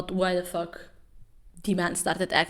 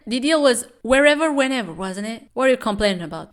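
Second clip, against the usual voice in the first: higher, louder curt retort; voicing the manager; 4 semitones higher, 6 dB louder, faster than usual. Manager retorting to Kim Dan, loud curt voice. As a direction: snap back at him.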